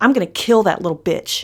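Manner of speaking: play-acted, venomous, hissing, menacing voice. Retelling a man pushing and yelling at Mom, retelling his hissing. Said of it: "he hisses again".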